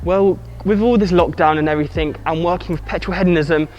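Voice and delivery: muffled behind a face mask; talking through a mask, words dulled; through fencing mask. Real, not acted. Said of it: "So sorry I've got a mask on".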